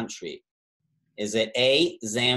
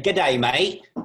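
put-on Australian accent; 2 semitones higher, 5 dB louder than usual. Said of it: "that's my attempt at an accent".

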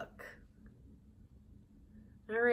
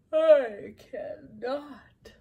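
weary whisper; 7 dB louder, much slower than usual. Acted. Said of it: "I'm making myself tired".

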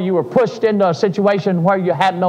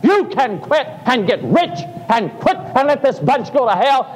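devil's voice; 5 semitones higher than usual. Retold or imitated. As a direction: lure him to quit. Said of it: "the devil whispering in my ear".

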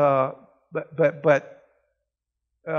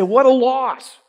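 mock lament; 5 semitones higher, 6 dB louder, slower than usual. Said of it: "We look at it and say".

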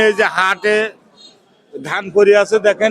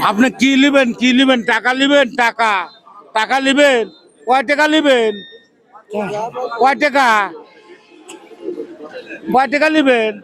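to someone hard of hearing; 3 semitones higher than usual. Real, not acted. Asking deaf old woman loudly.

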